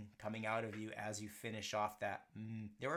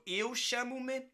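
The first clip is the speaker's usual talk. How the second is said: 1 slow demo; 11 semitones higher, 5 dB louder, slower than usual. Shown as a demonstration. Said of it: "model sentence".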